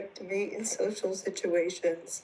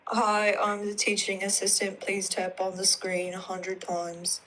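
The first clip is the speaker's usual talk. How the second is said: deadpan, robot-like monotone; robotic voice. Real, not acted. Teaching assistant reads the class instructions in a robotic voice. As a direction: read it like a machine with no feeling. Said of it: "you don't have to say it in a robotic voice".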